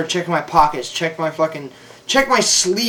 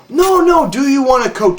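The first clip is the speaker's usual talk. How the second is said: patronizing; 8 semitones higher, 5 dB louder than usual. Retold or imitated. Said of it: "patronized me".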